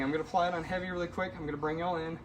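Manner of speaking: huffing and puffing from the heat; winded, puffing between words; out of breath. Real, not acted. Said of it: "If I'm huffing and puffing".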